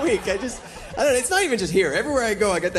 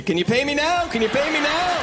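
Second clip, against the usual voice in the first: much higher, calling out bill collector; mock bill collector; 6 semitones higher than usual. Comic turning the slogan on the company, much higher. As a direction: call it like the ad.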